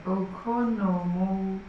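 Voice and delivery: Okonomowak sounded out slowly and evenly; careful pronunciation. Shown as a demonstration. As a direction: take Okonomowak slowly, syllable by syllable. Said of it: "I'm gonna go for it".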